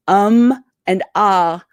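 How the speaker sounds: drawn-out um and ah as verbal filler; demo filler sounds. Shown as a demonstration. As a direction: show the hesitation noises, um and ah. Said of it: "check to see that you're not going".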